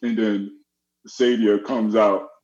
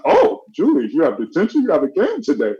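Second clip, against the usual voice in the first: high mock-surprised dean, rising on detention; 6 semitones higher than usual. Dean Sadia asks Julius about detention, mock surprised. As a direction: act the dean's shocked question.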